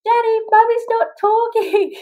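put-on high, drawn-out toddler whine; slow mock wail in a small child's voice; half-crying child. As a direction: imitate a little boy tattling, half in tears. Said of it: "sort of half cried".

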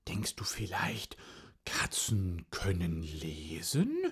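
Katze. Acted. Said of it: "sagte die Katze".

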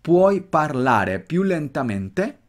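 slow Italian model with well-marked accent. Shown as a demonstration. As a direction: draw the question out slowly, accents well marked. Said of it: "Nota el acento bien marcado".

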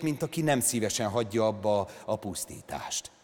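ordinary delivery, nothing marked

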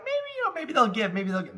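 hopeful inner voice. Retold or imitated. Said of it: "and I was just like".

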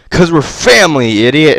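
loud sign-off. Real, not acted. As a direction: belt the sign-off line cheerfully.

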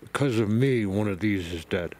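muffled, talking around a glove; glove in mouth. Real, not acted. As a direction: speak with a glove between your teeth. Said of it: "I have my glove in my mouth".

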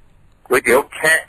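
แคะ said with an unaspirated-looking everyday spelling vowel, slowly; common mispronunciation. Shown as a demonstration. Reading a noodle shop sign to the co-host, slow careful pronunciation. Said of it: "ที่เป็นสระแอ คอควาย สระอา".

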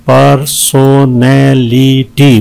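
"पर्सनैलिटी" slowly, in five stretched beats; syllable breakdown. Shown as a demonstration. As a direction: give every syllable of "पर्सनैलिटी" its own beat. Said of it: "पांच है इसमें". ("पर्सनैलिटी" पाँच हिस्सों में धीरे)

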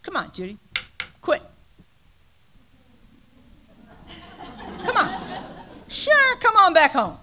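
high, teasing call to come home; mother's mock-sweet taunt. Mother teasing her crying daughter, calling her bluff: high mocking voice. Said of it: "She said".

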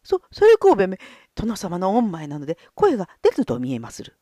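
flustered panic. Acted. Gonzo panics before the lord.

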